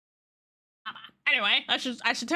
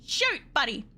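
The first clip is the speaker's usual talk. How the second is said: high played dialogue; 10 semitones higher than usual. Voices a question exchange.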